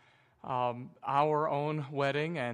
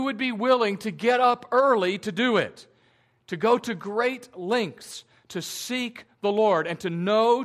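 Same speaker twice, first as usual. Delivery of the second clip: rising passion; 3 semitones higher, 5 dB louder than usual. Real, not acted. Preacher builds urgency on earnestness.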